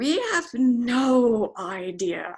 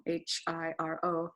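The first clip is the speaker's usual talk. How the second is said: whispered spelling; 5 dB quieter than usual. Real, not acted. Spelling the son's name.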